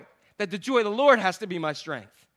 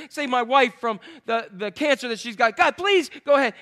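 acted plea to God, stressing each "please"; pleading prayer; 2 semitones higher than usual. Preacher voices believers begging God for healing, pleading. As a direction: beg in bursts, like a desperate prayer. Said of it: "he has pleaded with God".

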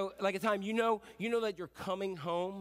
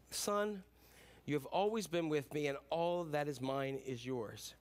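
tender father; 4 semitones lower, 3 dB quieter than usual. Retold or imitated. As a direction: reassure the angry son quietly. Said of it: "he says".

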